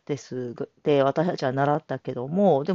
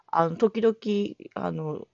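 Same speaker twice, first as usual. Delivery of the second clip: ordinary delivery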